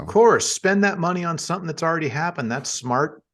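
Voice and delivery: fast, dry sarcasm; mock approval, quick and sly; sarcastic in character. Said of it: "that's out of character".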